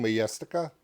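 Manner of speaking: The band name with the J said as a Y; Swedish-style pronunciation. Shown as a demonstration. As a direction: say "ma-YES-tica" for the band name. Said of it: "'Cause it's a J".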